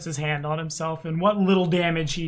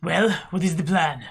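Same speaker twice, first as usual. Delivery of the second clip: Haydn Longstrider; 4 dB louder than usual. Acted. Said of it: "Haydn Longstrider".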